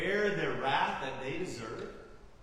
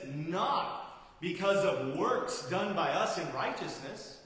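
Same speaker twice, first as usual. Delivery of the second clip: NOT stressed hard in a slow, deliberate reading; emphatic quote. Retold or imitated. Preacher quoting Titus to the congregation to deny works, emphatic. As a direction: hit "Not" firmly and spread out the rest. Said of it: "it's emphatic. He says".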